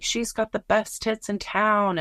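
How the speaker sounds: a hint of a carnival caller; carnival barker. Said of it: "like a carnival barker".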